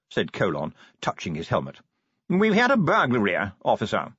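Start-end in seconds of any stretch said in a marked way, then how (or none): 2.3-4.1 fussy posh curator. Acted. Curator voiced in story.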